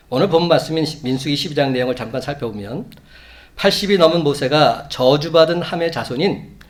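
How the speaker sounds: usual speaking voice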